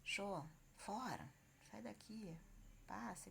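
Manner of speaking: slow, drawn-out xô to chase off a dog; shooing a dog. Shown as a demonstration. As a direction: shoo the dog away, slowly. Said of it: "Vai expulsar um cachorro". (espantando um cachorro devagar, "Xô, fora")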